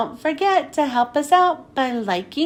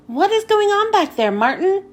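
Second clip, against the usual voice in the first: calling out; 6 semitones higher than usual. Acted. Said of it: "called out".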